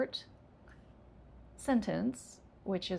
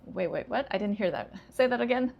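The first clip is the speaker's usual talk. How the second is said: confused listener; 2 semitones higher, 5 dB louder than usual. Retold or imitated. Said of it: "a native English speaker saying".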